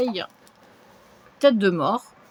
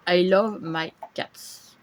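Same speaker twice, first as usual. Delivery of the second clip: French-accented English; 2 semitones lower, much slower than usual. Shown as a demonstration. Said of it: "désolé pour mon accent".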